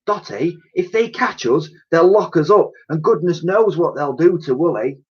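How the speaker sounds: worried plea to Dotty; a touch of fear. A narrator's reading. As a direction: Elsie frightened, pleading with Dotty. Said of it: "Elsie was shaking".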